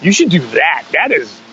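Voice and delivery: imitating impressed bandmates, starting high; amazed bandmates. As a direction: play a wowed reaction, laugh creeping in. Quotes his amazed bandmates.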